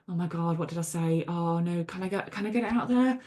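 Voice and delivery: understated mock worry, under the voice; acted self-doubt. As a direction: imitate second-guessing what you just said. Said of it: "questioning and doubting myself".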